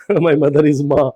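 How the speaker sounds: "my mother is माँ" said slowly, ending on माँ as the Hindi word for mother; the joking wrong reading, drawn out; mock wrong reading. Shown as a demonstration. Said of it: "ये माँ नहीं लिखा हुआ". (मज़ाक में ग़लत पढ़ना, धीरे-धीरे)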